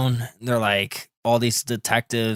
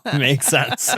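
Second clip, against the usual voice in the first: words broken by laughter; slow, louder, laughing through the words; 12 semitones higher, 5 dB louder than usual. Real, not acted. Friend jokes about Nintendo stealing everything, laughing.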